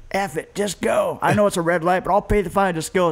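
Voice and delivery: high, urgent insistence to run the light; a frightened father pushing the driver on; panicky dad. Retold or imitated. Father ordering the driver through a red light, high and panicked. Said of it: "My dad's like".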